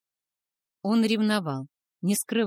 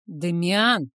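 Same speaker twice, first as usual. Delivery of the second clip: louder rumbling call of the name; rumbled; 5 dB louder than usual. A narrator's reading. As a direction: bark the son's name to stop him. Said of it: "пророкотал Трейман".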